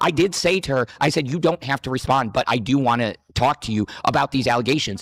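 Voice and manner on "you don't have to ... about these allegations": ordinary delivery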